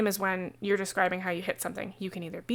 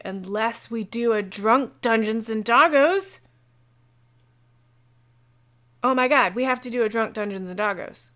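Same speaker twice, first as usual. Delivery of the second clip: excited; 2 semitones higher, 6 dB louder than usual. Real, not acted. Sudden idea for drunk game.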